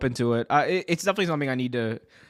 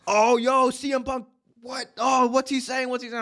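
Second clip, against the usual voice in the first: much higher, voice jumping up in disbelief; startled high-pitched reaction; 11 semitones higher than usual. Retold or imitated. Fan hearing the press scrum, high and baffled. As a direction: squeak out the confusion like you can't believe your ears.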